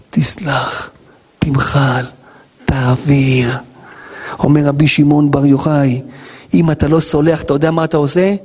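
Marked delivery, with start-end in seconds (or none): 0.1-3.5 breathy whispered plea to forgive. Acted. Rabbi urges the congregation to forgive, whispered. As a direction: hush it like a secret.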